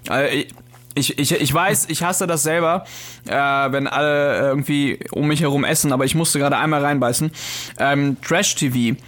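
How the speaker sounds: talking with a mouthful of sushi; chewing, words a little muffled; chewing while talking. Real, not acted. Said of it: "ich esse gerade Sushi".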